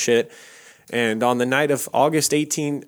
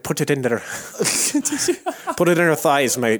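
put-on Scottish accent; 3 semitones higher than usual. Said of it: "if we could do a good Scottish accent".

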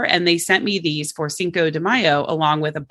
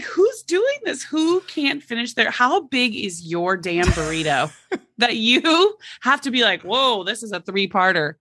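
mock incredulous; 5 semitones higher than usual. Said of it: "That's what I was like".

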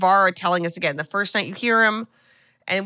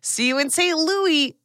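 mock ad tagline; 7 semitones higher, slower than usual.

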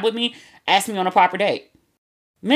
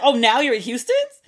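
miffed; 5 semitones higher than usual. Retold or imitated. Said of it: "She feels away".

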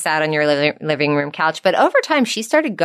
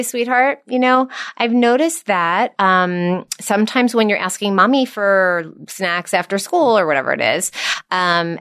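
gentle mother voice. Shown as a demonstration. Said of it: "And I would say".

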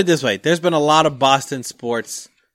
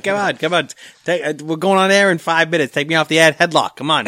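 in a headlock; 3 semitones higher than usual. Pretend. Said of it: "He's like".

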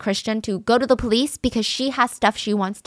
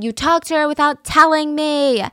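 higher and louder accusation; mock scream; 6 semitones higher, 4 dB louder than usual. The jealous girlfriend screaming at Christian, higher and louder. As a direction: yell the accusation. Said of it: "she keeps screaming".

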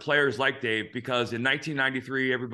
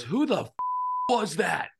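angry coach yell; 7 semitones higher than usual. Retold or imitated. Coach yells at team on bus.

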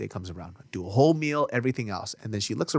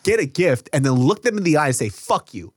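indignant mock scolding, pitched up; higher, emphatic reenacted protest; retold heated argument; 6 semitones higher, 3 dB louder than usual. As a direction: act out an exasperated telling-off. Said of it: "And that made a fat argument".

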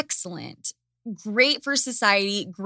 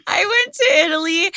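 mock influencer; 8 semitones higher, 5 dB louder, faster than usual. Mocking influencer voice.

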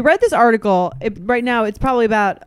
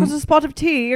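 higher, dainty mock-British child; British accent; 6 semitones higher than usual. Co-host showing how eloquent British kids sound, in a British accent. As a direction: put on an eloquent little British voice. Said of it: "it just sounds, like, eloquent".

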